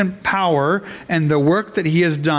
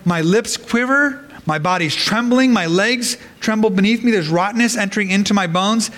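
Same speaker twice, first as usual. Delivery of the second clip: trembling fear; 3 semitones higher than usual. Acted. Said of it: "He's going".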